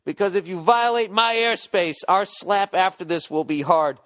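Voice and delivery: loud and high tough-guy threat; hammed-up tough-cop version of the airspace line; grizzled vet cop. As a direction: growl it like a hard-boiled cop on his beat. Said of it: "you know we didn't say it like that".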